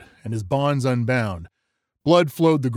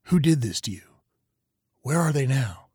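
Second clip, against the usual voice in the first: gentle question; 4 semitones higher than usual. Acted. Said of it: "Rue asked gently".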